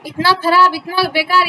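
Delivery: put-on mild demo of a teacher scolding a child; showing how not to talk to a child, lightly scolding; mock scolding. Shown as a demonstration. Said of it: "उसको direct से नहीं बोला जाता कि".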